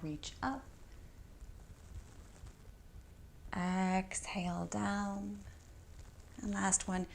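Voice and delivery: stretched-out exhales, sinking softly at the ends; yoga breath cues. Real, not acted. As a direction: pace each movement to a breath, with long pauses. Leads breath-timed yoga movements.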